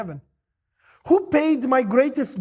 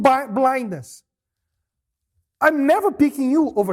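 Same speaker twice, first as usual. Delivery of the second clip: firm refusal; 2 semitones higher, 4 dB louder than usual. Pretend. Parents should have answered firmly.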